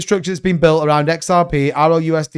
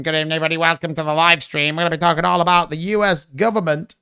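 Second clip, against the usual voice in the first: nasal voice. Pretend. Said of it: "I like that nasally voice".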